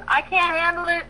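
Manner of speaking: high, strained voice of a worn-out wife at her limit; wife's weary plea. Retold or imitated. Wife in the kitchen pleads with the Holy Spirit, high and strained. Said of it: "and she goes".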